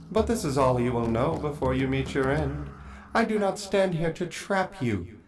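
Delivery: calm, cold duelist; proud vampire knight, lightly voiced. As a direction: welcome the fight. Vampire knight answers challenge.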